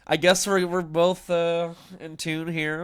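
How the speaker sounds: loud, high excited outburst. Real, not acted. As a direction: shout it in delighted disbelief. Surprised by matching coincidence.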